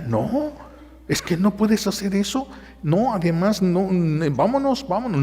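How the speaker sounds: wife pleading with husband to leave; anxious refusal. Retold or imitated. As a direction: urge him away, worried.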